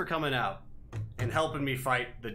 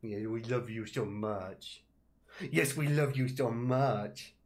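cooing to pet; 2 semitones lower, slower than usual. Real, not acted. Baby talk to cat.

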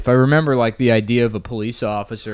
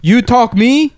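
put-on higher, louder mob tough-guy accent; mobster Italian accent; 9 semitones higher, 5 dB louder, slower than usual. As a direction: challenge him like a movie mobster in Italian accent. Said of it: "What a great accent".

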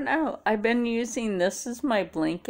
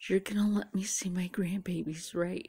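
put-on worried old man. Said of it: "he was always afraid that".

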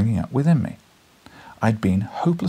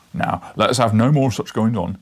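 loud gruff constable; stern policeman; 5 dB louder than usual. Acted. Policeman breaking up the fight, loud and stern. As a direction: scold them like a bobby.

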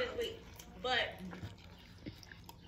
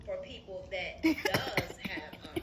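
slow, crying, fading to whisper; choked up, voice dropping away; sad; 4 semitones lower, 6 dB louder, much slower than usual. Real, not acted. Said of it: "Very sad".

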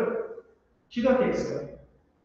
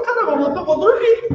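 high, louder, laughing through it; laughing complaint; 9 semitones higher, 5 dB louder than usual. Retold or imitated. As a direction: chuckle while moaning about sleep. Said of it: "Você fala".

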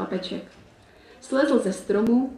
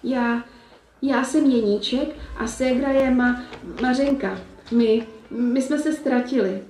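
shy stammer; 3 semitones higher than usual. Acted. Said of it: "Chlapeček nesměle promluvil".

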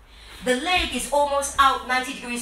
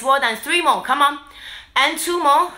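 pumped-up coach; 6 dB louder than usual. Real, not acted. Coach pushing class through reps.

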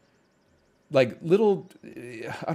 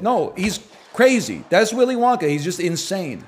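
excited; 6 semitones higher, 4 dB louder than usual. Real, not acted. Excited rant about Willy Wonka.

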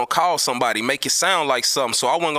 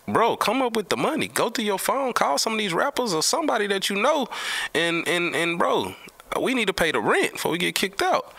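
imitating Dane Dash; 6 semitones higher than usual. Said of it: "he was like".

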